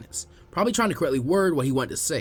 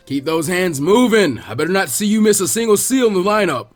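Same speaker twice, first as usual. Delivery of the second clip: louder, barking drill-sergeant calls; coach yelling; 7 dB louder, slower than usual. Acted. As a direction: push the team across the field.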